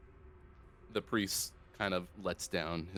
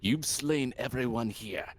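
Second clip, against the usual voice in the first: solemn priest speaking; different priest voice; 3 semitones higher than usual. Acted. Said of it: "gonna use a different voice for this".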